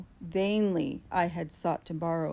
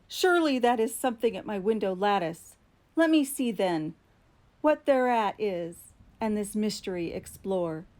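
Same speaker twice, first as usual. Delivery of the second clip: nervous excitement; 2 semitones higher, 4 dB louder than usual. Acted. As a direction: talk yourself out of fear, quickly. Nervously reassuring himself about tapping.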